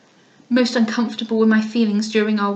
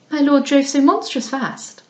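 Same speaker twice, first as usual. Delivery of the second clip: higher, affected, complaining drawl; affected young lady; 4 semitones higher than usual. Acted. Lady Louisa complains to Mrs Beaumont about the dust, affectedly high. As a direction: whine about the dust like a pampered girl.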